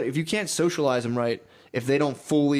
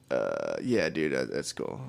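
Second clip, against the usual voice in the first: very low, quiet mumble; low, noncommittal mock reply; imitating awkward stranger; 13 semitones lower, 5 dB quieter, slower than usual. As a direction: voice a man edging out of the conversation. Mimics uninterested man walking away.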